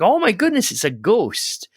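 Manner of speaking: high-pitched mock alarm at a sighting; acted fright. Acts out frightened disciples seeing ghost.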